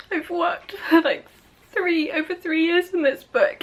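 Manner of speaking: high, laughing while holding back tears; teary laugh. Real, not acted. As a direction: speak through happy tears. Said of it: "I don't know if I've cried on camera before".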